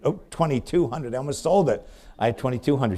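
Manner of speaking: real surprise at a new bid; surprised delight. Real, not acted. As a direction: caught off guard by a late bid. Unexpected higher bid arrives.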